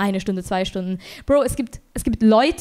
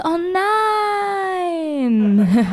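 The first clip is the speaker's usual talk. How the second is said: mock shocked; 7 semitones higher than usual. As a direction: ham up the shock, laughing through it. Reacting to boyfriend's news.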